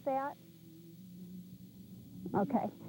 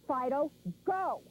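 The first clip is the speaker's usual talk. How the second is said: firm command; 4 dB quieter, slower than usual. Shown as a demonstration. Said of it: "make a definite go".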